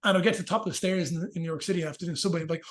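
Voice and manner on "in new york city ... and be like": ordinary delivery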